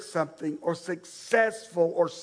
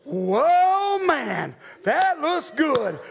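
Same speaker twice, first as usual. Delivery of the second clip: impressed whoa; 4 semitones higher, much slower than usual. Retold or imitated. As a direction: drawl out an admiring whoa. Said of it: "he goes".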